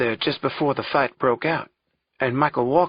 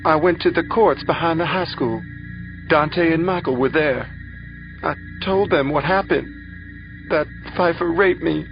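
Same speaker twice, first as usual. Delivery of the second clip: high, louder distressed account; pained, raised voice with halting pauses; upset testimony; 7 semitones higher, 4 dB louder than usual. A narrator's reading. Rape victim recounting growing upset.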